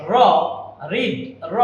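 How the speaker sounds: র said alone, then রিড with that R; teacher drills the single র sound; isolating the R sound. Shown as a demonstration. Teacher to students, isolating the র sound. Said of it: "এই আর এর উচ্চারণটা এখানে হবে রিড".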